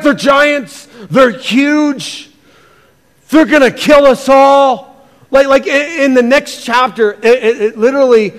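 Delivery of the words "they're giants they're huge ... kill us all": higher, shouted cry of "They're giants"; mock panic. Preacher mocking the scared spies to his congregation, panicky shout. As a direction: ham up the frightened spies, higher and loud. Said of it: "They're like".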